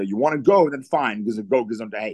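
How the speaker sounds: ordinary talk, nothing marked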